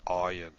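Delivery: "Ayin" started deep in the throat. Shown as a demonstration. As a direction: let "Ayin" begin further back in the throat. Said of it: "a little bit deeper in the throat".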